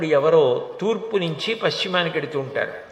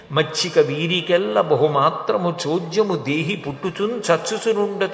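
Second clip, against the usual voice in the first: measured Telugu poem recital, slowing midway; verse recitation. Acted. Hiranyakashipu telling mourners death is natural, recited as measured verse. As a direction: recite it metrically, stretching the line endings.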